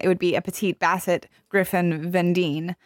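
plain American pronunciation of the French name; bad American accent. Shown as a demonstration. Explaining a breed name to friends, in American accent. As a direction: say the French words in flat-out American. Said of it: "in my bad American accent".

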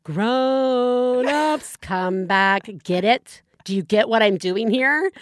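lightly mocked kids' TV host addressing adults; kids' show host. Host turns directly to parents, lightly mocked kids' show voice. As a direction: draw out the call to grown-ups like a show host. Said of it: "they should turn directly to you".

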